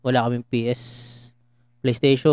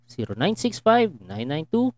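lotto announcer; 3 semitones higher, slower than usual. Acted. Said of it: "parang announcer sa Lotto".

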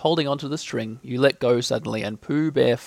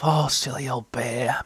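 slow, fond aside; laughing to oneself; slower than usual. A narrator's reading. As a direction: say it to yourself with private amusement. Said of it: "you laughed to yourself".

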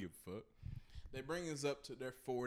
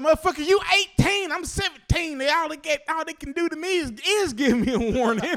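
very loud, high retold comeback; hammed-up gleeful rebuttal; laughing retort; 17 dB louder than usual. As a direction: shout it back, barely holding in laughter. Retold gloating retort to angry buddy.

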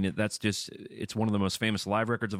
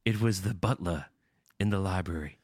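mock murder-mystery voice.

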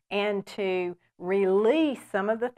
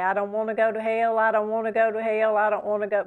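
preacher's refrain; 3 dB louder, faster than usual. Retold or imitated. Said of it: "Remember how E V Hill used to say".

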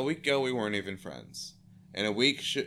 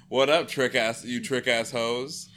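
mock hype principal; 2 semitones higher, 6 dB louder than usual. Imagined principal greets the pep rally, loud and hammed-up. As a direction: ham up a hype-man principal. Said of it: "if he was that kind of principal".

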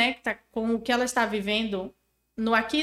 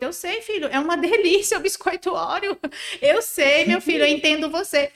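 empathetic, warmer; 5 semitones higher, 5 dB louder than usual. Shown as a demonstration. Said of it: "dando amparo e validando".

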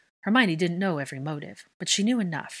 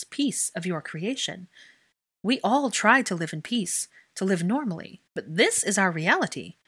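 impassioned speech; 4 semitones higher, 4 dB louder than usual. Acted. Hermione confronts the Wizengamot.

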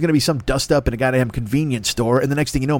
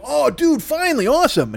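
excited relief; 13 semitones higher than usual. Retold or imitated. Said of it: "I go".

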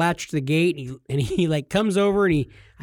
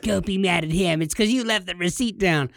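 mock wife voice; 2 semitones higher than usual. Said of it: "My wife does not talk like that".

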